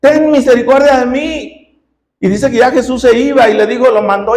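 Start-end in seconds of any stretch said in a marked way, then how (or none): 0.0-1.6 higher, imploring call with moderate volume; acted plea, pitched up; mild retold cry. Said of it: "le volvió a gritar".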